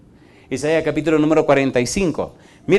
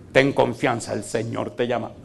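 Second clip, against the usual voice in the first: mock crowd; 4 semitones lower, 7 dB quieter than usual. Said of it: "qué le dijo la multitud".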